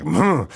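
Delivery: short closed-mouth "mm" of protest; grandma's huff. Retold or imitated. Imitating grandma before she storms out, huffy grunt. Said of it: "folded her arms, was like".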